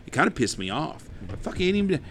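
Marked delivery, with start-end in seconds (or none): 1.3-2.0 higher, louder and fast; fed up with a greedy neighbour; indignant rant. Real, not acted. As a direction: rattle it off fed up.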